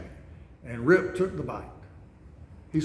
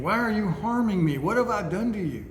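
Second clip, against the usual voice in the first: higher, imagined plea of a hurt animal; pleading orangutan; 5 semitones higher than usual. Retold or imitated. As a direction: ask why, higher and wounded. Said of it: "I think of him thinking".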